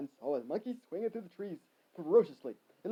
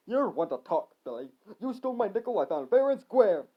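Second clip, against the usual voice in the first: moderately raised accusing yell; 3 semitones higher, 5 dB louder than usual. Acted. Harry accusing Billy of stealing, moderate yell. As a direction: accuse him, getting louder. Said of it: "Harry yelled".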